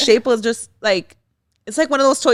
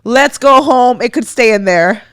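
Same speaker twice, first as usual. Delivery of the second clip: put-on kid refusing; 3 semitones higher, 7 dB louder than usual. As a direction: play the stubborn little kid who won't let the doctor near. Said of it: "They're like".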